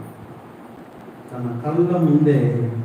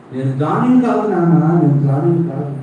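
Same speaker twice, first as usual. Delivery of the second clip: pleading son; 4 semitones higher, 4 dB louder than usual. Acted. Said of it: "పెద్దగా ఏడుస్తూ".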